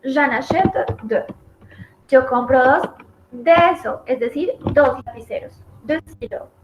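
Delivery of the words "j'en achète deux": j'en achète deux said slowly, the en set clearly in place; careful demo of j'en achète deux; slow model phrase. Shown as a demonstration. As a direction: show where en goes, slowly. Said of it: "Entonces voy a decir".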